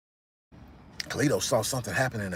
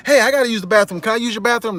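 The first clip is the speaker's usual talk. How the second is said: higher, louder innocent ask; casual request; 9 semitones higher, 6 dB louder, faster than usual. Retold or imitated. Carlito asking the thugs, high casual voice. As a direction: ask casually, testing them. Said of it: "he was like".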